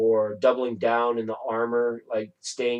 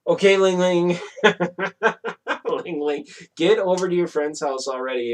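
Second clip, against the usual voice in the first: pet talk; 6 semitones higher, 3 dB louder than usual. Real, not acted. Talking to her pet.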